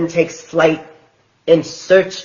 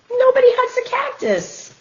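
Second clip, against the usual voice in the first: sing-song title. Shown as a demonstration. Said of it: "title read again".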